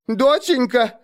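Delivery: a mother calling out in panic; frantic cry. A narrator's reading. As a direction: cry out in alarm for a missing child. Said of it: "раздался заполошный крик".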